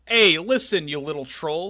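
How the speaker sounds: loud manager yell; Heenan impression. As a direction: bark at Mean Gene like a wrestling manager. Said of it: "And he goes".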